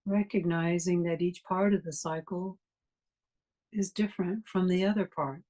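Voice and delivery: calm, even guiding voice with long pauses; guided meditation. Real, not acted. Meditation teacher leading a class to notice breathing, guided meditation. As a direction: guide listeners gently through the breath, unhurried phrases between long silences.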